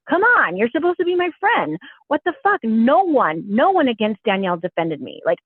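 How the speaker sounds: imitating an exasperated friend, pitch jumping up; retold mad rant. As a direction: vent as the betrayed friend, lightly acted. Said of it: "She was so mad".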